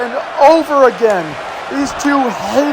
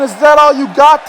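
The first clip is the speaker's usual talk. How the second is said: taunting quote, lightly imitated Scottish accent; 3 dB louder than usual. Commentator repeating Sam's challenge to his rival, Scottish accent. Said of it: "In his Scottish accent".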